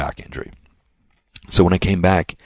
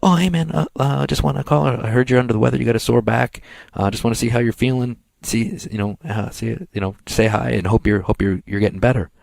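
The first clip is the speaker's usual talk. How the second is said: imitated caller, higher and halting; Lenny Lane; 7 semitones higher than usual. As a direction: put on a chummy, higher get-well-call voice. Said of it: "And he's like".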